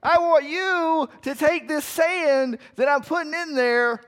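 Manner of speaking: high, drawn-out shout; loud, high-pitched bellowed command; yelling at the ants. Acted. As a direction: holler orders down at tiny creatures. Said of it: "start yelling at the ants".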